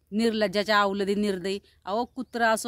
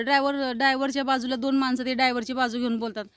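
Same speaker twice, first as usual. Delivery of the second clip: ordinary talk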